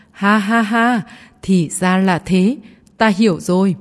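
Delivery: laughing like mad. Acted. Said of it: "bỗng nhiên cười như điên".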